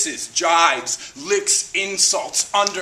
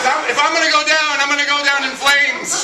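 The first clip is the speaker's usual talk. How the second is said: defiant burst; 3 semitones higher than usual. Real, not acted. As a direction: throw it out like a daring vow. Defiant resolve before the imitation.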